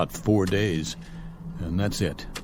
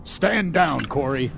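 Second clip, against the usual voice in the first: stern command; 6 semitones higher, slower than usual. Acted. Colonel orders Corey off.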